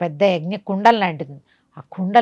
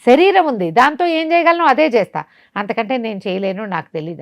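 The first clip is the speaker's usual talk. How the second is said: pleading demon; 5 semitones higher than usual. Acted. Beaten demon pleads ignorance.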